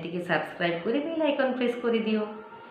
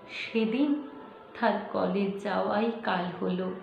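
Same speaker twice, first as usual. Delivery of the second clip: measured, dramatic verse reading with pauses between lines; poem recitation. Acted. Reciting a poem about an acid-attacked girl to viewers, solemn poetry recitation. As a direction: recite it as a grave story-poem, slowing as the tragedy unfolds.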